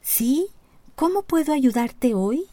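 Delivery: high trembling little speaker; nervous tiny AI helper; small robot assistant voice. A narrator's reading. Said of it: "Un pequeño altavoz blanco tembló y dijo".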